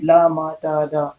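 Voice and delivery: teacher spelling ल, म, ट, ड out by sound for students; sounding out consonants. Shown as a demonstration. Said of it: "sound को सुन करके भी बना सकते हैं".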